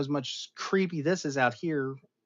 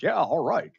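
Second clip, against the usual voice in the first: louder, higher heroic voice; video game Steve Rogers; 9 semitones higher, 7 dB louder than usual. Retold or imitated. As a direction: play the gruff game hero. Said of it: "video game Steve Rogers".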